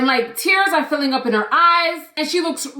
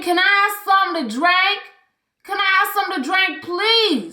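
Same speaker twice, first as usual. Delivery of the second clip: lightly imitating a girl's begging, higher; higher pleading voice; 6 semitones higher than usual. Retelling the thirsty girl begging Andrea, higher pleading. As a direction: beg for a drink in a higher small voice. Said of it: "pleading with this woman".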